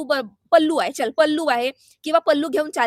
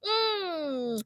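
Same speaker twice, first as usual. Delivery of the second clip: mimicked humming; 3 semitones higher, 8 dB quieter, much slower than usual. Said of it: "तेव्हा काय म्हणतात".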